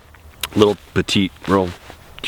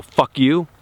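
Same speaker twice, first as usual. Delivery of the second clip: hard, hostile Fuck you with a rising edge; a hostile Fuck you to someone he doesn't like; 4 semitones higher than usual. Shown as a demonstration. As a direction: say Fuck you to a stranger you dislike. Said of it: "I don't know you and I don't like you and I look hard in your eyes".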